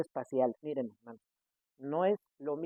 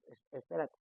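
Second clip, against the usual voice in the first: quiet plea; 3 semitones lower, 11 dB quieter than usual. Retold or imitated. Overwhelmed by philosophy.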